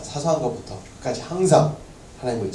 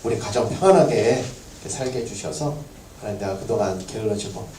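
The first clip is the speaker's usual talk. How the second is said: earnest prayer. Acted. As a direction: pray humbly, confessing. Pastor begins leading prayer.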